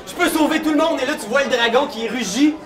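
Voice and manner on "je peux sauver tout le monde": higher, more desperate repeat; second take, higher and more pleading; character's thought, higher. Acted. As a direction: lift the pitch as the hope grows. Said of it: "puis tu fais".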